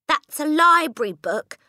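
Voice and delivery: high, loud desperate cry. A narrator's reading. Matilda crying out as he rips the book, high and loud. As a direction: cry out to stop him. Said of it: "Matilda cried".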